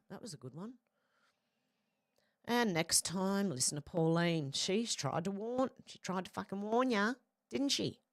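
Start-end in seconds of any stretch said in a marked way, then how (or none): 2.5-8.0 light bogan Aussie accent. Real, not acted. Streamer telling viewers to listen to Pauline, bogan accent. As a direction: say it like a bogan, slipping into broad Australian. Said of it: "Sorry, that was real bogan".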